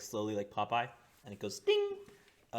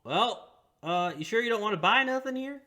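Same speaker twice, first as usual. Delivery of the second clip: high put-on innkeeper voice; 13 semitones higher, 9 dB louder than usual.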